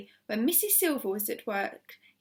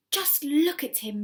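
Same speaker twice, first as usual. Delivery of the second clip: proudly; 4 semitones higher, 4 dB louder than usual. A narrator's reading. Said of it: "Missus Silver said proudly".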